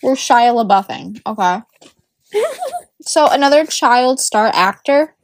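talking while crunching chips. Real, not acted. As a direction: speak through a mouthful of chips. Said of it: "Sorry about my crunching".

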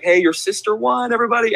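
high-pitched upbeat host call; re-enacted cheery crowd announcement; announcing the winner. Host declares the sister winner to crowd, cheery announcing.

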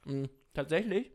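talking while chewing; mouth full. Real, not acted. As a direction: speak through a bite of apple. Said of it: "ich esse grad einen Apfelring".

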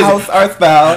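put-on old-fashioned lisp voice; mock biblical with a lisp. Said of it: "biblical gay nigga".

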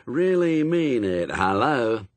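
slow call turning to the phone. A narrator's reading. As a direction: finish an aside, then answer firmly. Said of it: "getting louder as it neared the mouthpiece".

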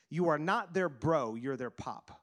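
slow, emphatic quote dropping low at the end; the Lord's memorable line. Retold or imitated. Pastor quoting the Lord's word to him, slow and emphatic. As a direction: spell it out slowly, then sink on the last phrase. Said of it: "he said it like this".

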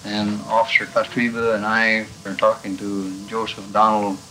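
scratchy archival tape sound. Real, not acted. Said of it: "I got this recording from the archives".

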